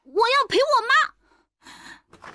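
put-on high, slow, stubborn boy's voice; stubborn child. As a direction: dig in like a small boy. 孩子坚持. (小男孩拖长声音倔强地说)

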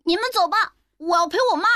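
put-on high, young boy voice; a small boy pleading to stay; child voice. 孩子声音，高而稚嫩. (小男孩的声音，尖细稚嫩)

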